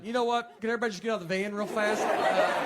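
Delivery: sudden claustrophobic panic, blurting fast; panicked outburst. Retold or imitated. Comic in a packed Uber, begging everyone to get out in a fast panicked rush.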